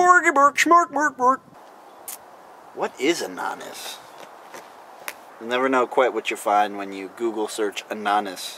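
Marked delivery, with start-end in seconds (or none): 0.0-1.4 nonsense babble, high-pitched and loud. Speaker, unsure of a Dutch accent, fakes one as Swedish Chef gibberish. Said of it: "so I just went with like Swedish chef".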